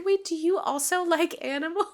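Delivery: bright, lifted voice, eager and a bit surprised; light up at finding a kindred spirit; mock delighted surprise; eager question. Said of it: "she's like".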